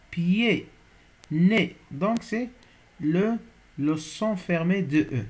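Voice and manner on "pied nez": "pied" and "nez" each ending in a closed é; closed E demo. Shown as a demonstration. Teacher showing students the closed é, slow and clear. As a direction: sound out the é of "pied" and "nez" slowly. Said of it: "le son E".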